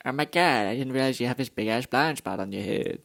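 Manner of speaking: goofy character voice, lightly done; silly mangled vowels, mildly hammed; odd put-on voice. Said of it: "I don't know why I'm talking like this".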